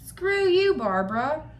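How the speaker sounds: high, loud retort that drops on the name; hammed-up defiant cartoon comeback; fed-up bird husband. Bird husband talks back to his nagging wife, high mock defiance. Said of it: "And he was just like".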